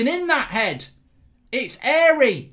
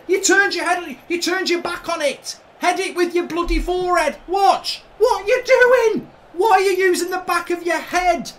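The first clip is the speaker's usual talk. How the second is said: angry rant; 3 semitones higher than usual. Real, not acted. Ranting at the replay.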